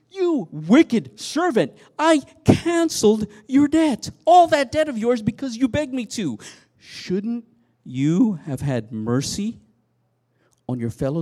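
outraged king scolding; angry rebuke. Acted. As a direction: thunder at the servant who showed no mercy. Master rebukes the unforgiving servant.

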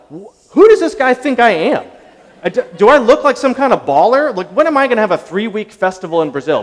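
high, loud mock disbelief; who does he think I am, played big; incredulous. Speaker retells his own inner reaction, in loud disbelief.

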